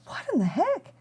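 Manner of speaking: a lightly voiced, hammed-up bewildered neighbor; baffled neighbor. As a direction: toss it out like a fed-up neighbor. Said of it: "And the neighbor's like".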